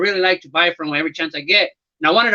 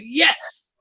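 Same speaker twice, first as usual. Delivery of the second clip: mock yes; 5 semitones higher, 4 dB quieter than usual. Acting out excited reaction to card.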